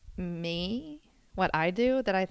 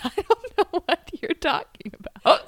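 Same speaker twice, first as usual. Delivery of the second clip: mock innocent; 8 semitones higher, 5 dB louder than usual. Playing innocent to sister.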